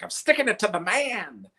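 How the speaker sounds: mock grumpy dad. Dad voiced in story.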